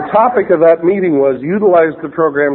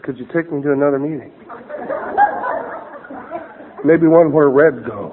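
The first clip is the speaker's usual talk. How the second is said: softened up; 3 dB quieter than usual. Retold or imitated. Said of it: "he softened up".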